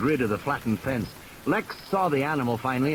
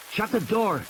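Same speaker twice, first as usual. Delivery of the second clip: put-on higher, urgent young boy's voice; 9 semitones higher than usual. Tim orders Lex to shut the car door. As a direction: snap an order at his sister. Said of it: "Tim said".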